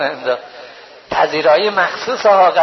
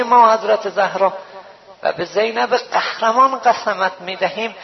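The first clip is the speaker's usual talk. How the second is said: supplication; 2 semitones higher than usual. Real, not acted. Preacher leading the gathering in closing prayer, fervent supplication. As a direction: plead to God with weight.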